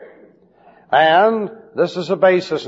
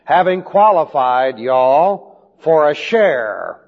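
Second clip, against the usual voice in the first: slow translation reading. Shown as a demonstration. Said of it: "it should be translated".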